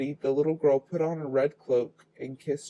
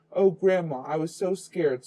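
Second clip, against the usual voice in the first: sobbing; 3 semitones higher, 3 dB louder than usual. Acted. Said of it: "sobbed Little Red Riding Hood".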